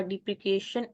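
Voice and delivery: "depreciation" said as dee-pree-KAY-shun; "depreciation" with a hard k in the middle; mispronounced. Real, not acted. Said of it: "this word is pronounced as depreciation".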